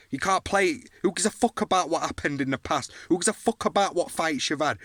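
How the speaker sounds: real fired-up motivational shouting; fired-up rant. Real, not acted. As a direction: hammer it home like a fight speech.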